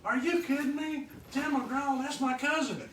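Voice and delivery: high, loud shout of disbelief; excited disbelief. Retold or imitated. Trucker shouting to the band that a singer is his cousin, high and loud. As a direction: yell it like you can't believe your ears. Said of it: "And he goes".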